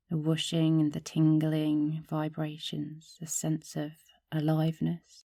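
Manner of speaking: calm meditation guide with long, restful pauses; unhurried, even-toned yoga teacher guiding a practice; guided meditation. Acted. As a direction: lead listeners gently through a body meditation. Leads a gratitude body meditation.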